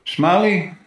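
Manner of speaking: calling out. Acted. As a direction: call out, rising to alarm. Searching, then finds something.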